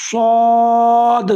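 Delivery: سواد said loud and slow, weight on the letter; stressed saad. Shown as a demonstration. Teacher pointing out the letter saad, slow and emphatic. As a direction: lean hard on سواد. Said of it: "کیونکہ یہ حرف ہے".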